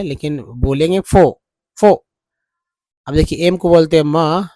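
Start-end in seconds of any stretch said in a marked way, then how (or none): 0.4-1.9 फो said with no r at the end; r dropped. Shown as a demonstration. Teacher showing how to say for, r left silent. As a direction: say फो, not फोर, the r stays silent. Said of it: "लिखते समय भले लिख ले".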